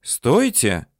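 high, loud call to stop; high narrated yell after someone; shouting. A narrator's reading. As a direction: call out sharply to halt them. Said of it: "закричала Людмила".

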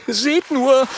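high, loud agitated dragon voice; spiny dragon. Acted. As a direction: squeal it out, upset. Stacheldrache voiced in story.

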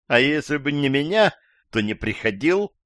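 quick comeback, lifted at the start; parry his point right back; retorting. A narrator's reading. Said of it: "парировала женщина".

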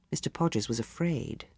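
ordinary delivery

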